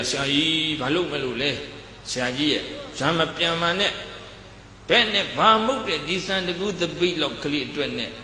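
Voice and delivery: staged alarm, crying out to stop him; mock pleading disciples. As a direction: pretend to hold the master back, pleading.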